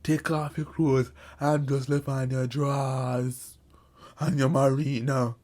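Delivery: slow, put-on stern stepdad order; stern command. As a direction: lay it out slowly like a threat.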